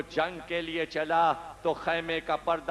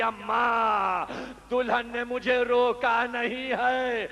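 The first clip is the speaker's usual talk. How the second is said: raised, drawn-out call to his mother; son calls back; 5 semitones higher, slower than usual. Retold or imitated. Son Wahab calls back to his mother, raised drawn-out call.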